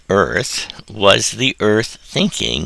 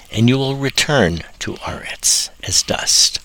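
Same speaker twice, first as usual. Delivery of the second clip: whisper. Acted. Dramatic close of the verse.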